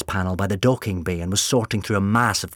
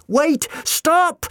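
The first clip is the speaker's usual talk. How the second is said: much higher, panicked cry; urgent shout; 6 dB louder than usual. Acted. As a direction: yell to stop him. Sally shouting a warning.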